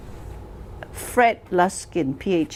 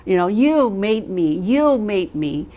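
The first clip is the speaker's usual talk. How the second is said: mock accusing complaint. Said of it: "did you hear people say".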